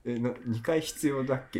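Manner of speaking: acted surprise. Acting out a first reaction to the dialect phrase, mild mock surprise. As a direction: play at being puzzled by the repetition. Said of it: "最初びっくりするもんだって。".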